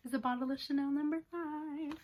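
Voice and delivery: hushed awed whisper. Real, not acted. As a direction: breathe it out in awe. Whispered reveal.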